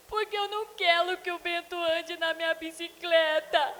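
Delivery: mother imitating her son refusing to share his bike; upset little boy. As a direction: sulk like a four-year-old.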